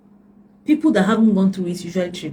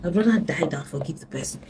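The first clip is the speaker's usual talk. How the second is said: a retold client's words, dropping to a hush; quoted client, hushed; 2 semitones lower, 6 dB quieter than usual. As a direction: let the last line fall to a whisper. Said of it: "somebody told me".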